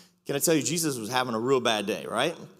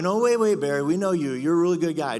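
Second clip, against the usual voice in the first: protesting congregation; 4 semitones higher, 5 dB louder than usual. Retold or imitated. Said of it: "You guys are like".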